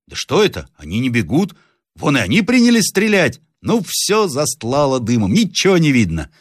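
put-on high, puzzled boy's voice; мальчик-наблюдатель. A narrator's reading. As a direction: report it aloud from the lookout. Boy keeps reporting the battle. (высокий голос мальчишки)

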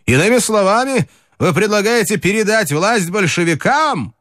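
high-pitched, spiteful challenge without extra volume; angry cry. A narrator's reading. Ataman's deputy rounding on him at the meeting, spiteful high-pitched cry. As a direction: throw it out as an indignant, high-pitched question. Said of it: "крикнул ему злобно".

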